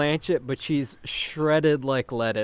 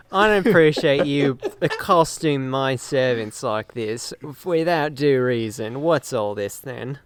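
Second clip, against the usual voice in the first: put-on Boston accent; 3 dB louder than usual. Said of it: "Bostonian for a second".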